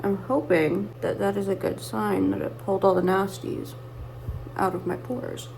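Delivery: talking around whitening strips with a stiff face; whitening tray. Real, not acted. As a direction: speak as if teeth strips block your mouth. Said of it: "so I can't talk super well".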